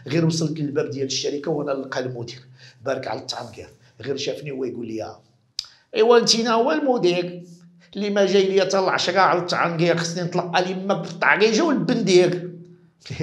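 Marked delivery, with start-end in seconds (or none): 6.0-12.3 a hint of an angry boss; lightly acted telling-off of a late worker; scolding boss. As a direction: boss laying into an employee, mildly. Boss confronts late employee.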